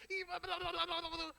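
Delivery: high-pitched blah-blah rant; mock ranting. Angry church member ranting at the pastor, mock yelling. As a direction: imitate someone yelling on and on, without real volume. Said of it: "Grita, fala".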